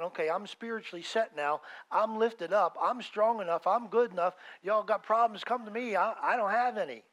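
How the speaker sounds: mock the proud believer, swaggering; smug boast. Preacher mocking a prideful believer, loud swaggering boast. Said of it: "This isn't about thinking".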